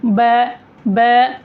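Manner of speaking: बै with the mouth barely open, vowel squeezed to ae; closed-mouth wrong vowel. Shown as a demonstration. Teacher shows the mistake of a closed mouth, narrowed बै. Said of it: "अगर मुंह बंद मुंह से बोलेंगे".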